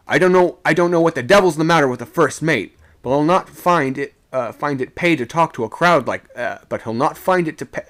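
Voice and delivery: high, heated objection; loud protest. A narrator's reading. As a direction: protest forcefully to an officer. Sailor protests loudly to second mate.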